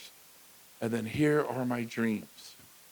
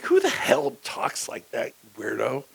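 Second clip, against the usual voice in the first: mock indignant retort; 5 dB louder than usual. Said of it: "I'm like".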